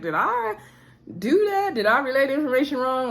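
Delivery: high, fast bewildered imitation; dumbfounded Monique. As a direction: play a stunned friend, pitch up. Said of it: "looking dumbfounded like a deer in the headlights".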